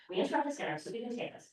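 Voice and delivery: fast, mock news anchor; newscaster voice. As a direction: announce it like breaking news. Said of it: "Lily says like a newscaster".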